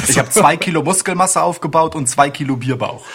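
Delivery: laughing. Real, not acted. Joking about beer belly.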